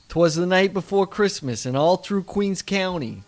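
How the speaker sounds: lightly voiced New York accent. Podcaster reciting his Queens Christmas poem, light New York accent. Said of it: "but New York based".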